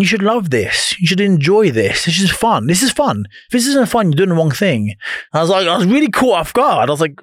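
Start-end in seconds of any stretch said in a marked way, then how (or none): 0.0-4.9 coaching voice. Retold or imitated. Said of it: "He went".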